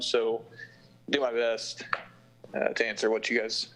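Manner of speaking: numb tongue after dental work; numb from the dentist. Real, not acted. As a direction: struggle through a numb mouth. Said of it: "it's hard to talk".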